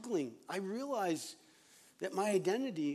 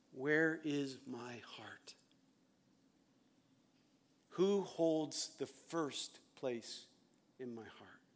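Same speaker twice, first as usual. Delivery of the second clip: slow, hushed whisper turned inward; searching whisper; 3 semitones lower, 4 dB quieter, much slower than usual. Acted. Pastor whispering the question to his own heart, hushed and slow. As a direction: breathe the question to yourself.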